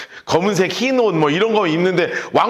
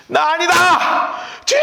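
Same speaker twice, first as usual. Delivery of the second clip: slow, high desperate yell and plea; both cries bursting out at once; fleeing king yelling denial then calling on God; panicked shout; 11 semitones higher, slower than usual. Acted. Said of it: "두 개가 동시에 막 튀어나오는 거야".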